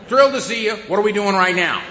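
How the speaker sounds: high, loud, thrilled; excited dog voice. Acted. Dog greeting her owner, high and loud with glee. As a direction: bounce like a happy dog.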